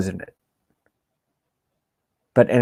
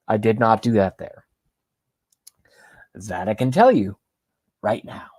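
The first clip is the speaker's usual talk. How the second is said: whispering. Real, not acted. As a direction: let it slip as a secret aside. Secret aside to viewers.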